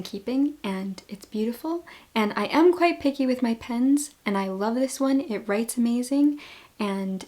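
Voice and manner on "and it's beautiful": whisper. Real, not acted. Aside in a whisper.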